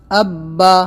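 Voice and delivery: "اب با" with the doubled b held hard; firm tashdid. Shown as a demonstration. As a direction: press firmly on the b in "اب با". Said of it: "اس کو ہم سختی سے".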